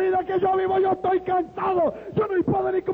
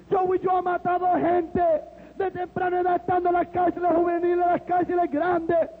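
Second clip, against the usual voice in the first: raised, fervent testimony with shouted peaks; impassioned preaching; 3 semitones higher than usual. Retold or imitated. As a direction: pour it out like a revival preacher. Christian retelling his conversion, shouting.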